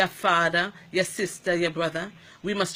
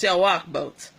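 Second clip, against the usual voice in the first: scolding; 5 dB louder than usual. Retold or imitated. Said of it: "I hear her tell the gentleman".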